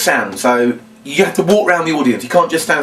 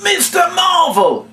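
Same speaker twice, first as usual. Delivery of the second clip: acting out reaching for an idea, then a higher shout; hesitant then shouting; slower than usual. Shown as a demonstration. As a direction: pretend to think, then call it out. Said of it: "that hesitation is very deliberate".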